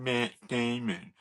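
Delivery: slow mimicked puppet voice; put-on puppet accent, drawn out; Matt Damon puppet. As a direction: say the name slowly, like the film puppet. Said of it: "And they said".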